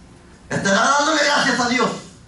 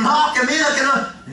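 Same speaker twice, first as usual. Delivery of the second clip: higher, animated imitation of a gossip; lightly mocked excited busybody; 5 semitones higher than usual. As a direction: chatter it to the neighbour in a raised pitch. Mimics gossiping to the neighbour.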